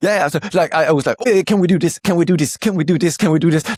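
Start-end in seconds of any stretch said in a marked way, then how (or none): 1.2-3.8 rushed, excited fast speech, higher and louder. Retelling how they rushed the AI with requests: imitating own excited fast talking. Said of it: "you were talking too fast for the A I".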